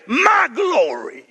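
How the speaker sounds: slow, proud shout; boastful king. Acted. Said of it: "here's arrogance".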